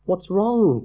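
a friend's frightened whisper of a question in the dark; tiny frightened voice. A narrator's reading. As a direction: sound small and scared. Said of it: "came a tiny, frightened voice".

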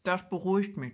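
talking while eating; words round a bite of food; mouth full. Real, not acted. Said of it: "Entschuldigung, ich esse schon wieder".

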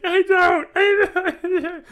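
high, loud refusal; drunken shout. Retold or imitated. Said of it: "my reenactment".

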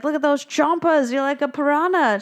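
a hint of a jokey dentist; playful dentist. Dentist remarking on the girl's teeth, lightly teasing.

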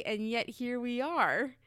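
slow, drawn-out mimic of his line; mocking catchphrase. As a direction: draw it out like teasing him. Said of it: "you say".

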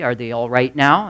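a touch of calm, unhurried reply; mild retold calm question; calmly. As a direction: answer evenly, keeping cool. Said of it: "Wesley asked calmly".

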